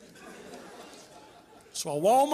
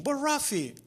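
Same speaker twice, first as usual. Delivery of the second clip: audience voice; 6 semitones higher than usual. Retold or imitated. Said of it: "which is my name".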